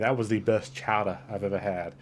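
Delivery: slipping lightly into a Boston accent. Real, not acted. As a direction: say it with a touch of Boston. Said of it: "changed my voice to Boston".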